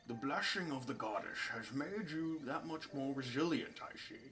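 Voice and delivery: lightly put-on old sage; a hint of elderly wisdom; old man's voice. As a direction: observe it as an old man, fading off. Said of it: "do this in the old man's voice".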